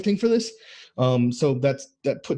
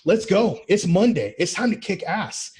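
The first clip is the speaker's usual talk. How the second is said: pep-talk hype; 4 semitones higher than usual. Retold or imitated. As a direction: fire up the guys for the week. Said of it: "we're there to lift those guys up and go".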